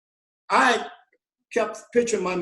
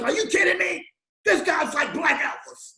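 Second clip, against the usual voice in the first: mock disbelief, pitched much higher; incredulous exclaim; 8 semitones higher than usual. The speaker telling Bruno about a singer, imitating high amazement. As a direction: shout it like you cannot believe it. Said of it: "he was like".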